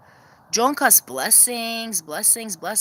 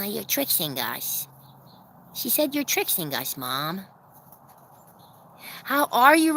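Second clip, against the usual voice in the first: normal talking voice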